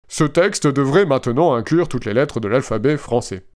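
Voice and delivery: flat, even machine voice; robot voice. Retold or imitated. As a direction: read it like a chatbot. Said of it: "avec ma belle voix de robot".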